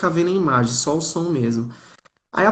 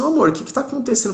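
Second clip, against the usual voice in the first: lightly voiced wife, higher and quick; esposa preocupada imitada; 9 semitones higher, much faster than usual. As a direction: imitate a concerned wife's hurried, high-pitched question. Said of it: "a Natália ficou preocupada". (esposa preocupada, imitada de leve em voz mais aguda)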